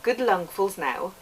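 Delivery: reading a novel extract in a put-on Welsh accent; lilting Welsh storyteller's accent, held through the passage. Reading How Green Was My Valley aloud to listeners, in a Welsh accent. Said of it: "go for my Welsh accent".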